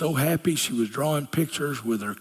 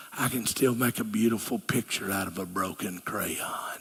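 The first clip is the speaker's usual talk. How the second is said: softer hushed whisper; gentle whisper; 7 semitones lower, 6 dB quieter than usual. Acted. God softly reassuring a broken listener, whispered. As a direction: hush it like a tender promise.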